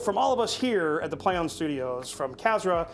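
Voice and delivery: announcer-style sign-off building up; a touch of broadcast announcer; show outro. Acted. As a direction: hype the outro like a host. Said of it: "we have a tradition here".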